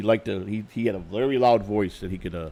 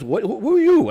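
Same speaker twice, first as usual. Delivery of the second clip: much higher and louder, outraged shout; retold furious yell; 11 semitones higher, 8 dB louder than usual. Visiting manager shouting at the intruder, high and loud. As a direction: reenact the stranger exploding at him.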